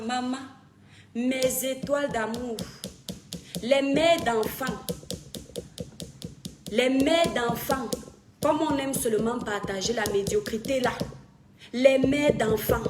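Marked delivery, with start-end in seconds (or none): 3.6-7.9 calling out. Real, not acted. Calling out mothers on livestream. 11.7-12.8 slow, loud call to parents. Real, not acted. Streamer summoning mothers to the live, slow loud call.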